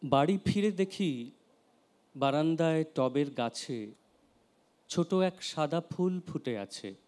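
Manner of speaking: measured poem reading with long pauses; unhurried verse, pausing after every line; poetry recitation. Acted. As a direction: recite line by line, letting each phrase fall. Reads a poem aloud.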